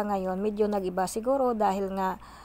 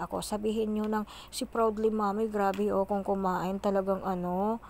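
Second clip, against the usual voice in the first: speaking between bites; talking while chewing. Real, not acted. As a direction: mouth partly full of food. Seen 1: Eats chicken throughout; mouth works food, fingers to lips often.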